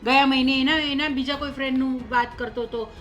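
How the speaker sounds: worked-up, exasperated complaint; angry disbelief. Acted. Mother-in-law doubting the son's accident stories, angry. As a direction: pile up the excuses indignantly. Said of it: "તમે ગુસ્સો ન કરો".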